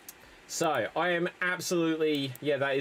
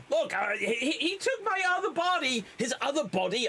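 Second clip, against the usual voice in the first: Donald Sutherland impression; 9 semitones higher than usual. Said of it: "I can't do a Donald Sutherland impression".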